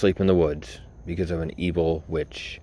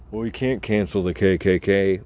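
mocking whine; 2 semitones higher, 4 dB louder than usual. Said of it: "Well, bitch".

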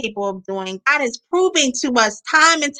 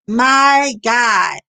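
a loud, stunned "My God"; awed shout; 4 dB louder than usual. Real, not acted. Preacher reacting to Elijah's story with a loud awed cry. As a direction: cry it out in real awe.

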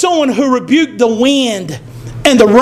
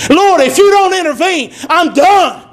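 pleading prayer; 3 semitones higher than usual. Shown as a demonstration. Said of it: "Let us pray like that".

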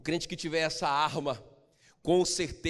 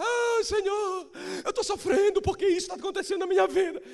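mock whining; 6 dB louder than usual. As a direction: whine like a complaining believer. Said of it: "Você vai lá chorar". (choramingo exagerado)

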